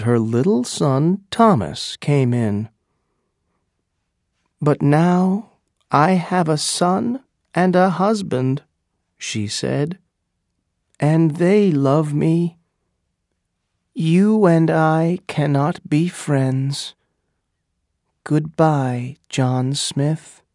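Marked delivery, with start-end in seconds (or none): 4.6-8.6 resolute Pocahontas. Acted. Pocahontas turns John Smith away. 11.0-20.4 resolute Pocahontas. Acted. Pocahontas ends the friendship.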